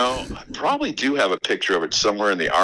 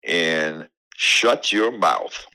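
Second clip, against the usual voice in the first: very slow Southern "shut your mouth"; Southern drawl; 6 semitones lower, much slower than usual. Retold or imitated. Caller imitating the host's accent, slow Southern drawl. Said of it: "you hear that drawl come out".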